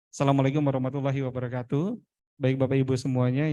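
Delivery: low, fast, barely articulated greeting; lazy articulation. Shown as a demonstration. Trainer imitates a speaker too lazy to shape vowels, lazy articulation. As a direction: rattle it off without any expression. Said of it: "Ini orangnya malas banget".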